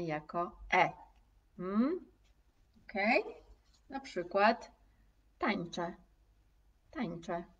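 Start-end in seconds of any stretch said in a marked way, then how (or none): 5.4-7.4 tańczę with ę ending as plain e; natural tańczę, final e; denasalized final ę. Shown as a demonstration. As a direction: say tańczę ending in a soft e, no nasal. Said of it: "Ja nie mówię tańczę".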